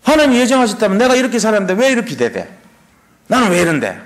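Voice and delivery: lightly imitated aggrieved believer; mock grievance. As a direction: whine at God, half in jest. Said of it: "하나님의 예정을 비판하는 삶". (억울한 듯 따지는 흉내)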